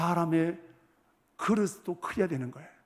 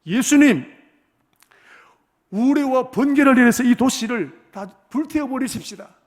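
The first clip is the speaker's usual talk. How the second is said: loud, angry plea, slower and higher, shouting to burn the town; furious demand; 6 semitones higher, 9 dB louder, slower than usual. Retold or imitated. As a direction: yell it like furious disciples calling down fire. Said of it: "얼마나 화가 났던지".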